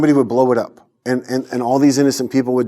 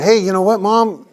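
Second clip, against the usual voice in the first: calling out high and bright with good news; sharing the big news eagerly; excited news; 8 semitones higher, 4 dB louder than usual. Retold or imitated. Son phones his mom with happy news, excitedly.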